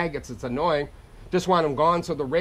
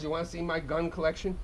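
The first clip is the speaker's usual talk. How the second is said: menacing quiet dad; 7 dB quieter than usual. Retold or imitated. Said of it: "The old man says".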